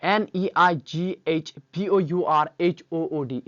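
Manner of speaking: slow, letter by letter spelling; dictating the letters of neighbourhood one at a time. Shown as a demonstration. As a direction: spell each letter out slowly for the class. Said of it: "इसको हम English में कहते हैं".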